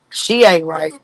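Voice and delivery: low teary mock whimper; mock crying. Teasing a friend about his mother, mock crying. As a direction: fake a sob on the line.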